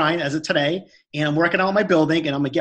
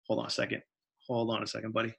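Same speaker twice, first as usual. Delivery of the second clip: low, soft real aside; quiet aside; 5 semitones lower, 11 dB quieter than usual. Real, not acted. Telling a buddy to hold on mid-story, quiet aside. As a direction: drop the voice to put someone off briefly.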